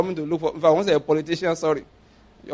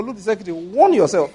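mock warning. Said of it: "I go".

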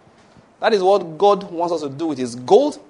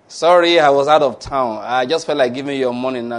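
eager debtor; 5 dB louder than usual. Acted. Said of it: "The man owing the biggest will just suddenly call you".

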